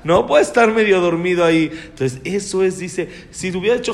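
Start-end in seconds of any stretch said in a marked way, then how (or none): 0.0-1.7 firm, louder scolding of a son; stern scolding. Retold or imitated. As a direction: rebuke him so he wakes up. Madre regaña al hijo en la boda. (madre que regaña a su hijo dormido, más fuerte y severa)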